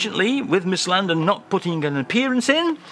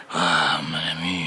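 impression of a French singer; 10 semitones lower than usual. Acted. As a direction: put on a thick French accent, unhurried. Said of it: "a French singer there".

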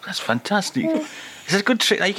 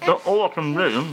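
muffled words through a mouthful; mouth full. Real, not acted. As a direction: talk through a mouthful of cake. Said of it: "I can't speak now".

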